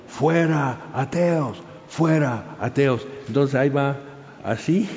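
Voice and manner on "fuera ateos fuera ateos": higher, drawn-out chant at ordinary volume; mock crowd shouting. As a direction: imitate a jeering mob without really yelling. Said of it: "y están gritando". (imitando el griterío de la multitud)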